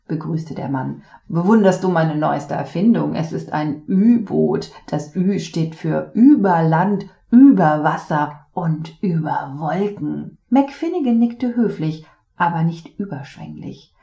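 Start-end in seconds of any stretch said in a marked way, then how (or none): 1.3-10.4 loud, proud showman father; boastful inventor dad. Acted.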